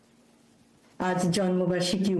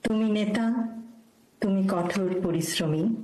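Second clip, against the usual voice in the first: measured tribute verse, a pause after each phrase; poem recitation. Acted. Speaker dedicates a birth anniversary poem to an honoured leader, formal recitation. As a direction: recite it as a formal ode, line by line.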